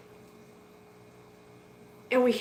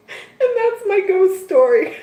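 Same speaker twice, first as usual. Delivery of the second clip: amused punchline; 10 semitones higher, 5 dB louder than usual. Real, not acted. Punchline after laughing.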